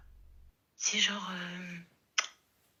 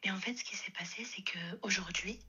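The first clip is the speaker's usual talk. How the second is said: whispering on the phone. Real, not acted. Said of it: "je peux pas parler plus fort".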